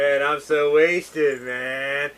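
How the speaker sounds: slow, slurred wasted drawl; lightly voiced stoned guy; slurred stoner voice. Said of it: "David Spade did that voice".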